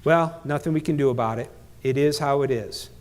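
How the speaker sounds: lightly acted helpless resignation, pitched low; resigned victim. Speaker shows how victims talk, resigned. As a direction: give up, voicing a mild victim mindset. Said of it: "The V stands for victim".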